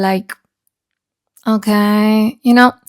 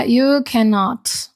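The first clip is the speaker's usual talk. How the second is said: ordinary talk, nothing marked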